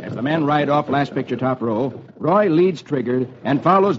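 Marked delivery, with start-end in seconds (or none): none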